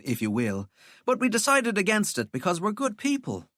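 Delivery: lightly voiced scornful young woman. Valkyrie mocks Walter.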